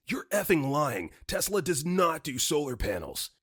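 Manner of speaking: angry caller, lightly acted yell; mild yell. Irate customer accusing the answering service of lying, mild yell. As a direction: imitate an irate caller without full volume. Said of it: "this man immediately yells".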